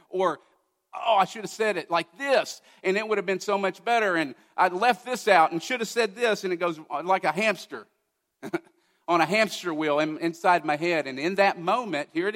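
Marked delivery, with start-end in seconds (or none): 0.9-6.4 higher, fretting second-guesses; fretful self-talk. Retold or imitated. Preacher replaying his sermon, higher fretful self-talk. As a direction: fret over what you should have said.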